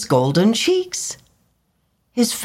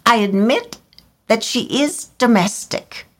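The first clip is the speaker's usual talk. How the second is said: higher fussy bird voice; swallow's voice; 7 semitones higher than usual. A narrator's reading. Swallow weighing the reed's virtues, fussy and high. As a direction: grant it grudgingly. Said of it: "he continued".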